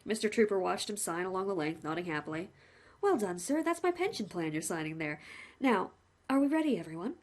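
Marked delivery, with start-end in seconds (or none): 3.0-7.2 lightly voiced chatty executioner; a hint of a friendly hangman; the hangman greeting the condemned man, cheerfully; cheery hangman. Hangman speaks.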